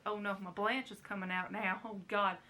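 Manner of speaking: lightly drawn Southern belle; a hint of Southern belle; Southern belle accent. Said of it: "I turned to a Southern belle".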